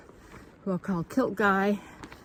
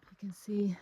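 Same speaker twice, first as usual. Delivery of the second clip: whispered aside; hushed trail whisper; 3 dB quieter than usual. Real, not acted. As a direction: breathe it out without voice.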